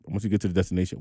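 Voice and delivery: slightly slurred speech; slurring words. Real, not acted. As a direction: slur the words a little. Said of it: "why am I slurring my words today".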